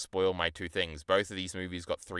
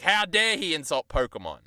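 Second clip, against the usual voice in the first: hammed-up indignation, higher; mock outrage; 7 semitones higher, 4 dB louder than usual. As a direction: fake fury over Pokemon. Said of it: "I was like".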